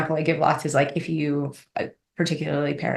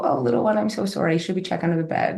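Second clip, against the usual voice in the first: gentle parent. Retold or imitated. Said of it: "we'll go in and go".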